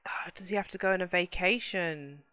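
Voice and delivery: soft unvoiced whisper; hushed wondering whisper. Real, not acted. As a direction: whisper it as a puzzled aside. Whispered aside.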